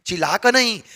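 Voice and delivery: ordinary talk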